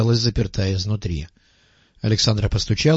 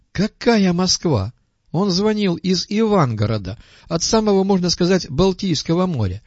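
agitated; 6 semitones higher than usual. Acted. Marat tells urgent news, agitated.

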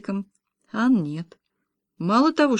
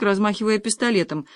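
ordinary delivery

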